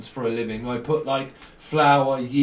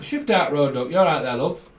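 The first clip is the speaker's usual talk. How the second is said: lightly imitated northern English accent; mock northern English, put on lightly; 4 dB louder than usual. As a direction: talk like they do up north. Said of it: "they talk like that".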